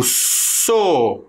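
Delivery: So said alone and clearly; syllable sounded out. Shown as a demonstration. Teacher showing two sounds together. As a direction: isolate the syllable So. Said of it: "mas eu percebo S e O".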